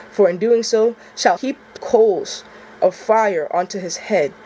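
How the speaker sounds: measured, even Bible reading of the verse; scripture reading. Acted. First reading of Romans to viewers, calm and measured. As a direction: read it steady and solemn. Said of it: "that last part, too, it hits me different".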